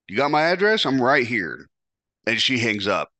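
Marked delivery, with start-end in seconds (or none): 0.1-1.7 taunting dare. Retold or imitated. On the phone daring her boyfriend to come, taunting.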